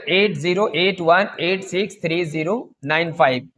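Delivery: slowish, in one unbroken run; repeat the number. Shown as a demonstration. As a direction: read the whole number again steadily without pauses. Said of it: "फिर से देखिएगा".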